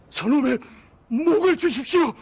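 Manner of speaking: demanding at full voice; loud, high, furious demand; angry shout. Acted. Refugee demanding the noble's head.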